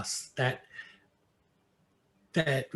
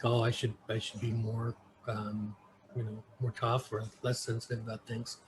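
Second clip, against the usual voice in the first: inner thought; 3 semitones lower, 10 dB quieter than usual. Retold or imitated. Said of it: "there are times when I think".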